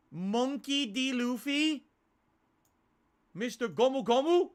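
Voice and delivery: high, loud, drawn-out anime hype; hyped callout. Acted. Streamer hyping the viewer's Luffy request, excited. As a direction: shout the hero's name like a fan.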